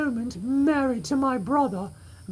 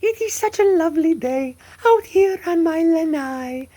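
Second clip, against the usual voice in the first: Southern Belle. Acted. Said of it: "I feel like such the Southern Belle".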